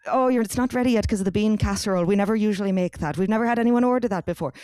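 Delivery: rapid mock Irish café worker; Irish accent. Café worker excusing a late order, in a fast Irish accent. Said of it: "I'm doing a full Irish accent".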